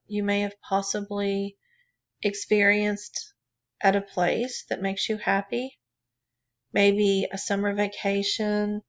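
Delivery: calm, even meditation guidance with long pauses; guided meditation. Real, not acted. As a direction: guide listeners gently inward, leaving room between phrases. Leads a drawing meditation.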